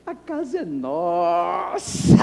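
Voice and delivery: slow, tearful voice on the house; moved, near tears. Retold or imitated. Pastor telling his wife the house is theirs, tearful. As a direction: let the emotion crack through.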